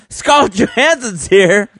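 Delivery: high squawky cartoon duck voice. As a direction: talk like Donald Duck. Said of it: "I can't do it like Ed".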